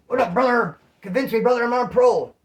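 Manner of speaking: lightly hammed-up wrestler promo; Hulk Hogan. Mock-pleading with spam callers as a lightly voiced wrestler. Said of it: "I'm getting the Hulk Hogan era".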